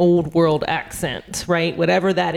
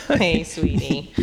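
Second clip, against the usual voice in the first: a slow, lightly voiced sweet greeting; a hint of Carrie, drawn out gently; Carrie impression; 4 semitones lower, slower than usual. Friend mimicking Carrie's sweet greeting, slow. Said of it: "doing an impression of Carrie".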